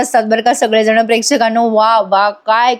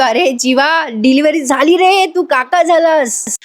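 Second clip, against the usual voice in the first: higher-pitched happy news, last words drawn out; retold excited announcement; 4 semitones higher, slower than usual. New father phones his brother about the birth, excited.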